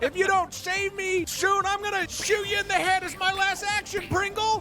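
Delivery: high, shouted rat gangster voice. Game narrator voices a trapped mafia rat calling to a player character: mafia rat yelling. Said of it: "the main mafia rat yell out".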